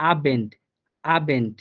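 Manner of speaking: আবেন্ট said twice with a Bengali ব; model word. Shown as a demonstration. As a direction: drill আবেন্ট slowly, ব voiced. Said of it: "বয়ের মতোই উচ্চারণ হইতেছে যে আবেন্ট".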